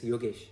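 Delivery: "Yogesh" as said in his native tongue; native pronunciation. Shown as a demonstration. Showing viewers his name, native-tongue pronunciation. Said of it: "when I'm in my native tongue".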